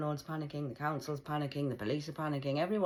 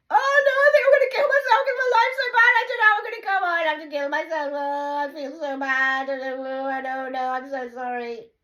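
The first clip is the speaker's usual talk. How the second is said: much higher, loud whiny wailing parody; mock self-pity; 13 semitones higher, 14 dB louder than usual. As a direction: ham up a self-pitying victim.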